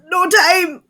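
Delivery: high, loud snarling beast cry; werewolf voice. Acted. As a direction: yell it like a frantic beast. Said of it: "and she says".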